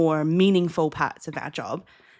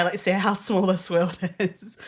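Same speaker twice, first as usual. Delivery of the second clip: laughing in disbelief. Retold or imitated. Retold excitement, laugh inside.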